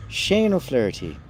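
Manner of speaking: lightly lilting Irish accent. Real, not acted. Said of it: "Immediately I went in Irish accent".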